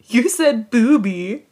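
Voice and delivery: put-on slow, childish mumble; immature mutter. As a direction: mutter it like a giggly kid. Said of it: "Do you wanna read that part?".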